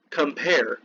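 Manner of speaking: "Compare" slowly, weight on the second syllable; teacherly "Compare", second syllable stressed. Shown as a demonstration. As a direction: lean on the "pare" of "Compare". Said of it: "emphasis is on the second syllable".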